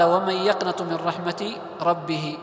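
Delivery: slow, drawn-out chanted recitation; Quranic recitation. Shown as a demonstration. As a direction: recite the verse slowly with tajweed. Teacher recites verse slowly. (تلاوة قرآنية بطيئة)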